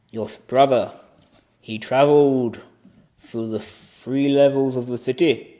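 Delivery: put-on very slow, portentous old seer; ancient keeper. Keeper tells Odin of his brother's journey, ancient seer. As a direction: intone it slowly, with long pauses.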